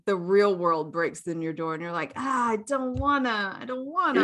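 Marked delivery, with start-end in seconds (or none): 2.2-4.2 whiny reluctance. Acted. Acted reluctant waking up.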